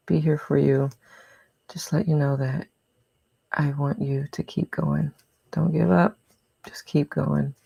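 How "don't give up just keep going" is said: whispering. Real, not acted. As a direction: whisper it gently. Gentle whispered encouragement.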